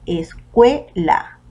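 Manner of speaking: "escuela" broken into es-CUE-la; split, stressed CUE. Shown as a demonstration. Teacher introducing the third word "escuela", syllable by syllable. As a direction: separate "escuela" into three beats, stressing CUE. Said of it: "la que tiene mayor fuerza de voz".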